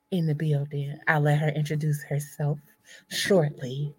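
low, smooth seductive host voice; sexy voice. Shown as a demonstration. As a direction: purr it like a late-night host. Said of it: "let me put on my sexy voice".

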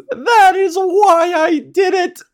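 high, drawn-out mock shout; imitated celebratory yell. Host quoting a bowler's outburst, mock triumphant yell. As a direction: yell it slowly in exaggerated triumph. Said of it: "he yelled".

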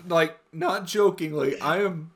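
recovering from a real laughing fit; crying with laughter. Real, not acted. Amused friend reacting to a joke, tearful from laughing. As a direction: speak through tears of laughter. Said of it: "I'm crying right now".

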